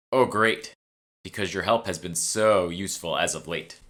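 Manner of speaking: dry sarcastic jab; mock-grateful retort; sarcastic, not really grateful.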